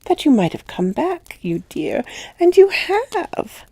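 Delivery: put-on a child answering sweetly and sure; child's calm answer. A narrator's reading. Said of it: "she quite adequately answered".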